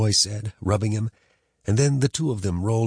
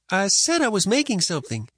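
put-on higher sulky boy; boy's voice; 11 semitones higher than usual. A narrator's reading. Boy answering.

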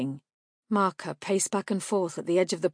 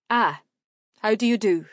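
courteous stranger; 4 semitones higher, 7 dB louder than usual. A narrator's reading. Evandar courteous.

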